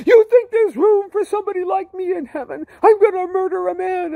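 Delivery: very high, wailed shout; anguished outburst. Retold or imitated. Driver doubting heaven has room for him, anguished shouting. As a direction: hurl it back as a despairing cry. Distraught driver rejects second verse.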